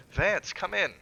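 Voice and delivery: high, loud summons; cried out. A narrator's reading. Master summoning his servant, loud high cry. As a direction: cry him in from the shadows. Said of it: "cried Mister Wilde".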